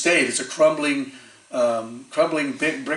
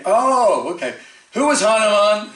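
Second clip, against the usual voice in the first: curious astrologer; 7 semitones higher, 4 dB louder than usual. Retold or imitated. Astrologer questioning the boys.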